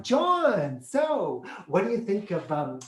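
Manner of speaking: put-on bait the kid with a grin; lightly voiced parent teasing. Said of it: "they'd be like".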